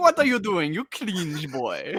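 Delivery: dumb-sounding voice with pitch swooping around. Acting out a character's line in a silly voice: stupid Antoine voice. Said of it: "my stupid Antoine voice".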